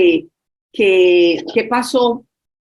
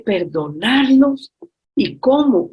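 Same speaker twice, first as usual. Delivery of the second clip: drawn-out, higher questioning; retold incredulity; 4 semitones higher, slower than usual. Woman retelling another's reply to being told to forgive both parents, incredulous. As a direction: echo it slowly in disbelief, then lift higher.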